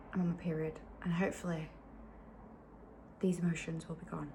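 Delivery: soft, hopeful whisper; quiet weary whisper. Real, not acted. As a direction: whisper it gently to the camera. Hoping emotions will be gone.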